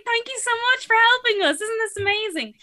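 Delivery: sarcastic gushing thanks to the staff member; mock gushing thanks. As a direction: gush your thanks with a sarcastic edge. Over-the-top thanks after the fight.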